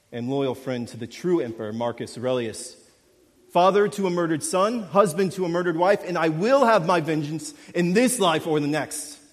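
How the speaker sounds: retold hero's defiant declaration, from hushed to loud; Maximus speech. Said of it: "and he says".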